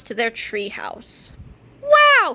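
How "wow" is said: high, loud wow; amazed old man. A narrator's reading. Old George sees the treehouse, loud amazed cry. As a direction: gasp it in delight. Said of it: "cried old George".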